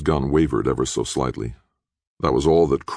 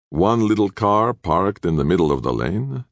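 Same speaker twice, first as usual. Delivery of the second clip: higher-pitched, faintly scornful reply; almost contemptuous; 6 semitones higher than usual. A narrator's reading. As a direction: answer with light disdain. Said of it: "Castiglione replied almost contemptuously".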